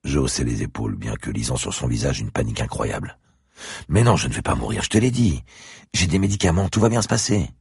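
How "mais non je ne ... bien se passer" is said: higher, louder, strained calming; forced reassurance. Acted. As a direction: insist all is fine, a bit too loudly. Franck reassures the panicking girl.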